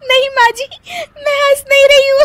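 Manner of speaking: high, fast giggling denial; laughing denial. Acted. Daughter-in-law denying laughter while giggling.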